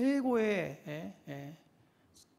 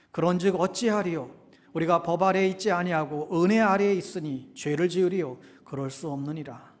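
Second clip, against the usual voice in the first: measured recitation on a lower pitch; scripture reading; 4 semitones lower than usual. Real, not acted. Preacher leading a last reading of the verses, formal recitation. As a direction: read the verse out formally to the congregation.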